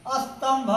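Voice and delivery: स्तंभ said as astambh with a short a in front; a before st. Shown as a demonstration. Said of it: "तो यहाँ हम अ का उच्चारण करते हैं".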